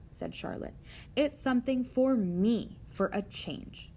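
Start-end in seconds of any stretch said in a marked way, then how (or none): 1.2-3.9 "me" stressed as a wry correction. Acted. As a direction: lean on "me", then slow the tail. Spider corrects pig, contrasting "me.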